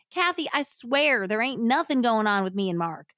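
lightly acted Southern protest; Southern accent. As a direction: swear innocence in a hillbilly twang. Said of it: "read this in a Southern accent".

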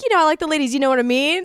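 lightly imitated country accent; playful touch of mock country accent; Rita's country accent. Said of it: "And she's like".

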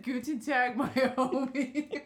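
imitating tourist German. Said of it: "And then you said".

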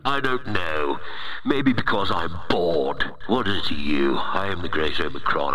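booming demon lord. Acted. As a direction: play a self-important virus overlord. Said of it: "It's not my real voice".

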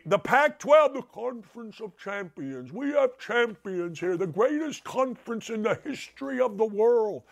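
lightly voiced Bill Walton, rambling and grand; a hint of Bill Walton hyping the conference; Bill Walton impression. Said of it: "That's my Bill Walton imitation".

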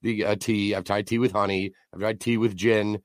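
losing his voice, hoarse and strained; croaky sick voice. Real, not acted. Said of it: "I still sound like absolute ass".

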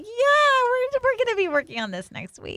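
high, quick, forced cheer through a smile; mock smile through the teeth. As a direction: imitate a therapist's tight, toothy politeness. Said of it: "she gives you the big smile, like, through the teeth".

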